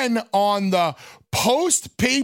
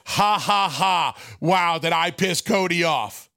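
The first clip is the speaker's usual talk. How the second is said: mock gloating laugh; 3 semitones lower than usual. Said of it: "As if".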